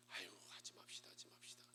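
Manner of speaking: low, hushed, defeated grumble; acted weary refusal, very soft; giving up. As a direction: drop the voice and back out. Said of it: "백 퍼센트 우리 그렇게 말할 거예요".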